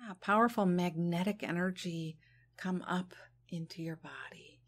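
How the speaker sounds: gentle, unhurried meditation guidance; guided meditation. Real, not acted. Leading listeners to release worry on the exhale, guided meditation.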